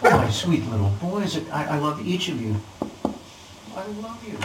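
soft, doting father; tender. Acted. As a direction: croon it lovingly to your boys. Father dotes on his sons.

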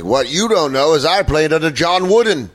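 put-on old player boasting. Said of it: "What if he's like".

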